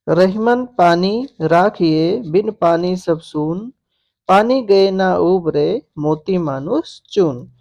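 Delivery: slow, measured couplet reading; verse recitation. Shown as a demonstration. Teacher reciting a Rahim couplet as an example, slow and measured. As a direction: recite it slowly, phrase by phrase.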